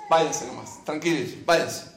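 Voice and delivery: low, quiet, sly permission; sly Pharaoh. Acted. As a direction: coax them away softly like a cunning king. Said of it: "el faraón le dijo".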